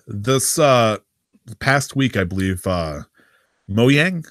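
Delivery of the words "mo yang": MOJANG said mo-yang; questioned pronunciation. Shown as a demonstration. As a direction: say Mojang with a y sound in the middle. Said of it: "Is it Mojang or Mojang?".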